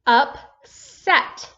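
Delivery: UPSET with a gap between "up" and "set"; word read in two beats. Shown as a demonstration. Teacher reading the divided word for a student, in two beats. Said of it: "What's the whole word?".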